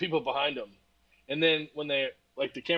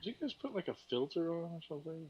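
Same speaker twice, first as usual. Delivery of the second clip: giant cock voice; 4 semitones higher, 10 dB quieter than usual. Real, not acted. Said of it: "That's just him".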